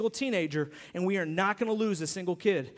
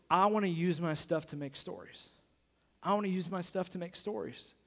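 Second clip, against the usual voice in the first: softened, measured quote, dropping quieter on repeat; earnest quote; 2 semitones lower, 6 dB quieter than usual. Retold or imitated. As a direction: quote him softly, letting it sink in. Quoting donor, solemn repeat.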